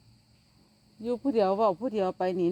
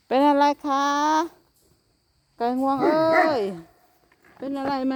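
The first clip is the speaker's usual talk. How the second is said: coaxing call; 6 semitones higher than usual. Real, not acted. Coaxing the frightened turkey.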